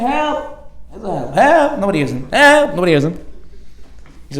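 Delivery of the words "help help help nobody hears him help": high yells for help from the roof; screaming for help. Retold or imitated. Man stuck on the roof screaming for help. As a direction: call down for help from far above. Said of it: "He starts screaming".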